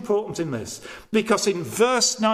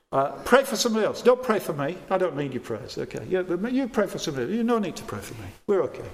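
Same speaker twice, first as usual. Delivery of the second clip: quick, casual refusal of prayer; lightly mock someone waving help away; self-sufficient brush-off; much faster than usual. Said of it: "Self-sufficiency".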